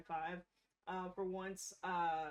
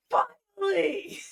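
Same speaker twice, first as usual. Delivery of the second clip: high, very loud, slow shout; triumphant shout; 11 semitones higher, 18 dB louder, much slower than usual. Acted. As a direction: drag out a victory cry. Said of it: "That's how she says it".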